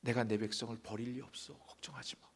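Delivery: hushed, soft voice of God reassuring; God whispers comfort to his people; whispered reassurance. Acted. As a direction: whisper it like a promise to a frightened child.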